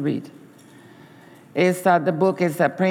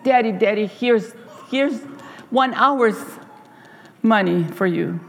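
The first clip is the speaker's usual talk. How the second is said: put-on a proud child handing over his savings; eager child; 3 semitones higher than usual. Boy offering father an hour's pay, eager.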